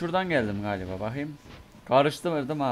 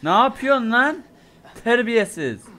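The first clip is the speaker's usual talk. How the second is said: high, loud yelp of fright; shocked, shrill outburst; startled shriek; 9 semitones higher, 10 dB louder, slower than usual. Real, not acted. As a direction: jump out of your skin and shout at him. Startled by someone in game.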